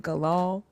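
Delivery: Allah garbled into "Galal"; mispronounced Allah. Retold or imitated. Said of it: "when he was trying to say Allah".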